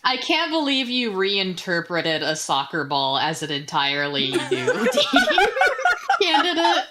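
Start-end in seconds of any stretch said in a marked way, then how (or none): 4.3-6.8 laughing while talking. Real, not acted. Breaks up laughing mid-sentence.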